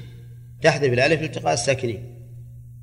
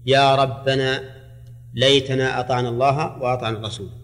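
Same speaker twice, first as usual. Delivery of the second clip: slow recitation. Shown as a demonstration. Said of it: "تقديره".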